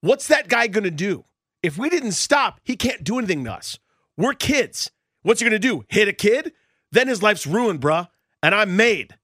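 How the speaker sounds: high-pitched mock teenager, punching phrases; imitated teen talk. Teenager scoffing to friends about a dad, mock bro talk. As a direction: play a defiant teen bro. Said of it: "talking the way that young people talk".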